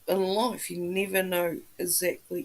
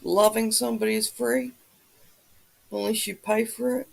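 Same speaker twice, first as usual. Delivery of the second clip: ordinary talk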